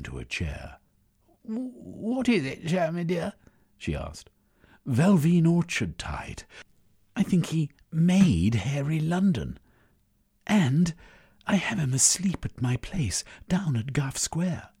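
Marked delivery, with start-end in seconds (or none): 1.4-3.3 worried woman voice. Acted. Schwinifere worried. 4.9-14.7 high, loud urgent news; excited. Acted.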